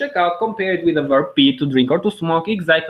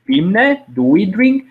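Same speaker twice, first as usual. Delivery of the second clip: "Pim ne" with a rising question tune; asking intonation; 3 semitones higher, 5 dB louder than usual. Shown as a demonstration. Teacher shows the question tune to students, rising and a bit louder. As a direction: lift "drink" up at the end like a real question. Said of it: "be careful with the intonation, like you're asking something".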